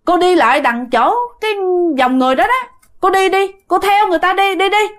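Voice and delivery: lightly voiced woman ushering someone along; urging woman. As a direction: keep nudging them onward, pitch lifted. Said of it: "bà nói với mẹ rằng".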